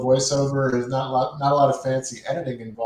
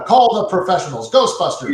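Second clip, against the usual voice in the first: higher, louder cheesy ad announcer; Ghostbusters commercial voice; 6 semitones higher, 6 dB louder than usual. Retold or imitated. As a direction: pitch it like a late-night TV ad. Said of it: "in Ghostbusters when they're doing the".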